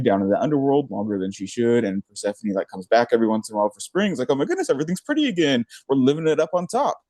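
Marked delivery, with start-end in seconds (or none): 4.3-7.0 higher and fast, gushing; giddy excitement. Retold or imitated. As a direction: bubble over like spring just arrived. People celebrating spring's return.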